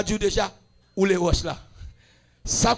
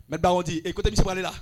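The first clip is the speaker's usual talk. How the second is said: very soft, lowered storytelling voices; hushed acted dialogue; 3 semitones lower, 7 dB quieter, faster than usual. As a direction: play the exchange under your breath. Acted exchange among the astonished dead. (dyalòg tou ba)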